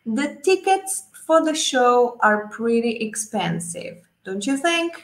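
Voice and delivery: slow, careful model read; teacher modelling a sentence slowly. Shown as a demonstration. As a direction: lay out each word slowly for students. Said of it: "fíjense el último ejemplo".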